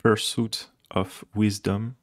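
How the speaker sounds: Pursuit of Wisdom in a put-on English accent, slowly; a light stab at an English accent, drawn out; mock English accent. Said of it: "avec mon accent anglais". (petit accent anglais appuyé, lentement)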